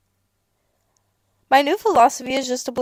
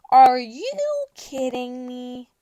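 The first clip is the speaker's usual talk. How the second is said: slow disbelief; 5 dB louder, much slower than usual. Acted. Disbelief, repeated.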